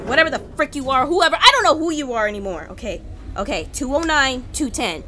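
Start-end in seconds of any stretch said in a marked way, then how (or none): 0.1-2.7 frustrated yell. Real, not acted. Yelling at game monster.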